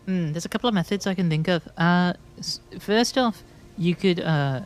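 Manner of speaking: loose amateur Scottish, fading as it goes; a light, homemade Scottish accent; rough Scottish accent. Acted. Bartender laying out travel options, loose Scottish accent. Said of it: "Bailey is Scottish".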